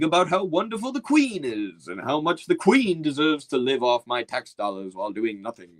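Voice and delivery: mock British accent. Streamer mocking a meek British subject, mild mock British accent. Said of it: "a British attitude of, like, servitude".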